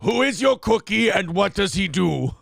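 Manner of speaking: mock Arnold quote. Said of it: "you're mixing up your impressions".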